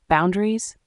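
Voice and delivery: incredulous rise on Boundaries?, shaking; trembling with rage. A narrator's reading. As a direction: throw Boundaries? back, rising in anger. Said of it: "my voice trembling with rage".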